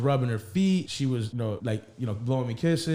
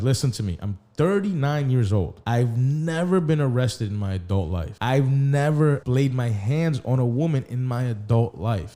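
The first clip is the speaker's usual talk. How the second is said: flat-out telling. Retold or imitated. Man retelling how he set his girlfriend straight, flat-out telling. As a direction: lay it down firmly, word by word. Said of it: "I told her flat out".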